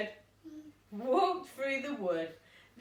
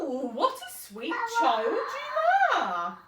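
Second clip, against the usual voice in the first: high, slow, syrupy wolf with a chuckle; sweet-talking wolf; 6 semitones higher, 5 dB louder, slower than usual. Acted. Wolf sweet-talking the little girl, slow and high. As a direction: lure her in sweetly. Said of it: "said the wolf".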